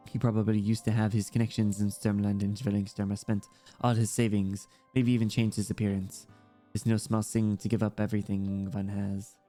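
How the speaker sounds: lightly voiced child with German accent; understated German-accented character voice; German-accented young girl. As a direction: chat like a German kid, lightly.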